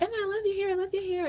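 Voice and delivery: mimicking a coworker raving about her hair; gushing coworker. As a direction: coo it like a gushing fan. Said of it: "she was like".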